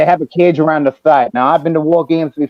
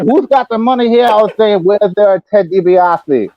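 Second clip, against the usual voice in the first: Dusty voice shouting. Retold or imitated. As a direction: bellow it like a wrestling legend. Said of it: "in that voice".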